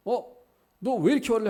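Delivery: very high, loud scolding with 이렇게 stressed; hammed-up rebuke leaning on 이렇게; mock angry scolding. Imagined God scolding Jonah again, high and loud on 이렇게. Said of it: "감정을 억누르시는 게 아니라".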